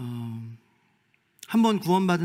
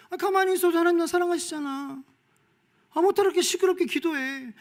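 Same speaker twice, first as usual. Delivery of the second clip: high, whiny, louder complaint; mock complaining believer; 14 semitones higher, 3 dB louder than usual. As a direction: whine like a lazy believer. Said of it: "이렇게 부르는 게 기도라면".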